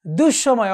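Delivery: দুঃসময় with a double s; doubled consonant. Shown as a demonstration. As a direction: say দুঃসময় as "dush-shomoy". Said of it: "দ্বিত্ব হয়ে যাবে". (দুঃসময়-এ স-এর দ্বিত্ব উচ্চারণ)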